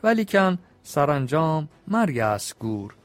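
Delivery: measured, rhythmic reading of Persian epic verse; epic verse recitation. Acted. Storyteller reciting the epic's couplets to his listeners, rhythmic. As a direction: chant the couplets with a steady beat.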